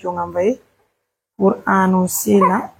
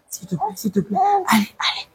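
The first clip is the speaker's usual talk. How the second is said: whisper; 6 semitones higher, 5 dB quieter than usual. Real, not acted. Mother hushing her crying baby in a whisper. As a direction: breathe the words, no voice at all.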